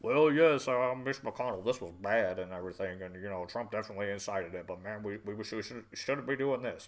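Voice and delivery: a lightly voiced, limp, apologetic politician; mocking spineless congressman. Vlogger mocking Republicans appeasing the narrative, lightly voiced limp whine.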